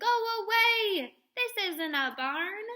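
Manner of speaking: loud, slow, high shout; angry shout. A narrator's reading. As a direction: drive them out with a slow bellow. Cook chasing animals out.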